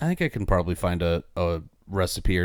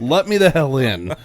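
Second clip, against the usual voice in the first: raised, higher pleading yell; exasperated shout; 6 semitones higher, 5 dB louder than usual. Pretend. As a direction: demand to be let in, louder. Locked out holding food.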